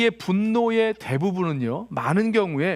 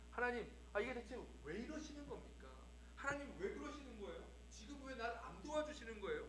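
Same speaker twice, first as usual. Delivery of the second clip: higher-pitched, exasperated complaint; acted irritation; 4 semitones higher, 23 dB quieter, faster than usual. Preacher acting out an angry believer complaining to God, irritated. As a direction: demand an explanation, mock indignant. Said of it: "하나님께 막 짜증짜증 화를 내고".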